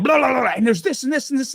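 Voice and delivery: high, rushing nerd gush; excited rambling. Retold or imitated. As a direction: gush like a fan who can't stop. Rambles excitedly about Star Wars to his wife.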